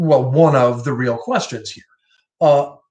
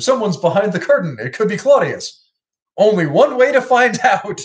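Bart as Hamlet; 7 semitones higher, 3 dB louder than usual. Retold or imitated. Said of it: "when they did Hamlet on The Simpsons".

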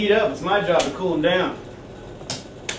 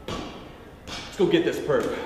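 whisper; 6 dB quieter, much slower than usual. Acted. Cop heading out to a call.

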